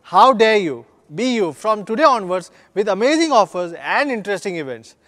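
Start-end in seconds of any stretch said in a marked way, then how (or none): 0.0-0.9 loud, punchy slogan call; bold call out. Shown as a demonstration. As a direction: throw the slogan out boldly to the crowd. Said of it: "with a bold call out".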